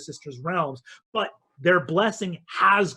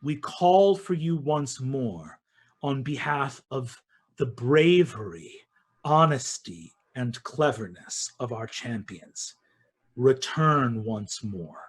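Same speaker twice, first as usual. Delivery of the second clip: solemn invocation; 3 semitones lower than usual. Acted. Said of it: "in unison they say".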